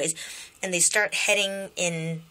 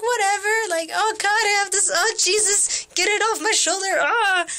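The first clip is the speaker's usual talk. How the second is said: put-upon whatever; 13 semitones higher, 4 dB louder than usual. Retold or imitated. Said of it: "he's just kinda like".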